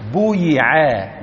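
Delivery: بويعا said slowly, with a long rounded u after the b; teacher slowly modelling بويعا; passive form drawn out. Shown as a demonstration. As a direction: stretch بويعا out slowly so the u-sound is clear. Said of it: "لو بنيناها للمبني للمجهول نقول".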